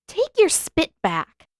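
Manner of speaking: slow, high, loud scowling jab. A narrator's reading. Katara to Sokka while wiping his hair, scowling jab. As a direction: wipe it back on him. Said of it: "With a scowl".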